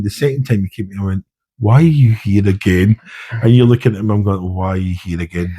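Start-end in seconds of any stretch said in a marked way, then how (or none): 1.6-3.0 slow, stretched-out exasperated question; drawn-out exasperation. Retold or imitated. Instructor greets trainee's second visit, slowly exasperated. First take of retold repeat question. 4.5-5.6 softer, quicker, under-the-breath question; quiet exasperation. Retold or imitated. Instructor eyeing the trainee's companion, quietly exasperated. Second take, retold to the trainee.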